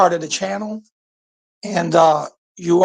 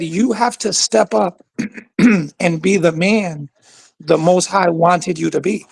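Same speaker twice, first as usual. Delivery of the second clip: slower, measured restatement; deliberate repeat. Real, not acted. Caller repeats his point for the host, slow and deliberate. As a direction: say it over more slowly and deliberately. Repeats when asked what he said.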